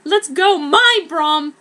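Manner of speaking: high, loud rallying cry; eager rallying. Acted. A student calling on a broom to fly. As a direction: cheer the broom into the air.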